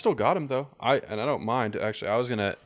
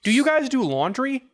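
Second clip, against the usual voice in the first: very high, slow silly voice; silly squeaky ask; 9 dB louder than usual. Acted. Party asking the tailor, very high silly voice.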